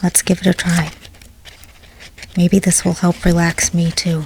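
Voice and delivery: soft whisper. Starting a relaxing bedtime story reading, whispering. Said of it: "a lot of whispering like this".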